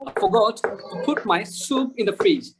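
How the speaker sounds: slow sentence, long oo in "soup"; slow teacher's model with "soup" lengthened; drawn-out soup. Shown as a demonstration. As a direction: keep "put" short, stretch "soup". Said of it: "স্যুপটা আমরা টান দিব".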